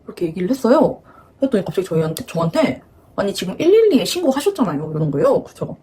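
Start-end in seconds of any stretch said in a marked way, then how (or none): 3.2-4.9 higher-pitched mock accusation; retold scolding, pitched up; imitating angry police. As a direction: act out an officer telling someone off. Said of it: "저한테 막 화를 내는 거예요".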